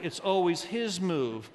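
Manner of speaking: "his" stretched and emphasized; stress on his. Retold or imitated. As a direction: lean on "his" to point at him. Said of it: "I hear some of you saying".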